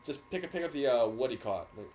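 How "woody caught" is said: "woody caught" as one run-on word; imitated run-on "woody caught", dropping at the end; words run together. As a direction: casually merge it into "woody caught". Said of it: "stringing the words together".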